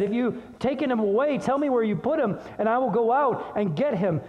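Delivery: understated distress, pitch lifted; anguished Mary. Acted. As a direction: plead with a touch of anguish. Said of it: "can you hear the anguish in Mary".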